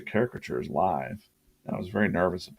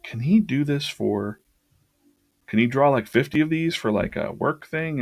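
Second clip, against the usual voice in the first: quoting the lady; 6 semitones higher than usual. Retold or imitated. Lady asking for fifty drawings.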